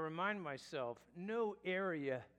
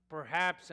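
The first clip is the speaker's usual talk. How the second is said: "Perhaps" lifted and said louder; stress on perhaps; 8 dB louder than usual. Shown as a demonstration. Preacher flagging doubt to the congregation, "Perhaps" stressed and rising. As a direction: lean hard on "Perhaps", rising at the end. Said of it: "I emphasize the word perhaps".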